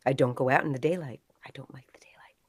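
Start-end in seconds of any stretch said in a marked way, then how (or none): 1.4-2.4 voiceless, secretive hush; paranoid whisper. Acted. Paranoid newcomer confides to neighbors in a whisper. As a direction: whisper it like someone's listening.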